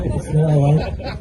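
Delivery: slow, laughing "not a lie". Real, not acted. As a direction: chuckle through the repeat. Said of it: "repeated laughing".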